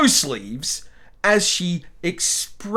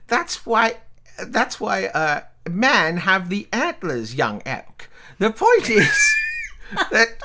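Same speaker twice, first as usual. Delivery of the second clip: put-on elderly relative voice; 3 semitones higher, slower than usual. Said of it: "this is a voice I'm actually comfortable with".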